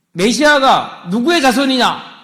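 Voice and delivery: slow, high, loud challenge; Jesus testing the Pharisees, slow and pointed; probing question. Acted. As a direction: lay the question down slowly. Jesus poses a test question.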